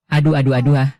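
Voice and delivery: hammed-up pained yelling; mock yelp of pain. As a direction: overplay the hurt, yelping. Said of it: "Jangan teriak".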